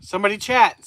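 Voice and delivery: loud call for chat. Real, not acted. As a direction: call out to the viewers. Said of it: "the chat stopped".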